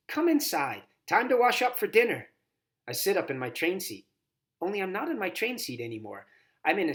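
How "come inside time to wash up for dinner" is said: louder, rising call from the house; grandma calling the girl in for dinner. A narrator's reading. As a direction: summon the kid in to wash up. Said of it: "a voice calls from inside the house".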